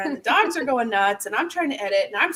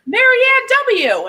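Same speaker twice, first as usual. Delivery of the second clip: slow, much higher and louder announcing shout; retold name call; 13 semitones higher, 8 dB louder, slower than usual. Delivery guy reads the name.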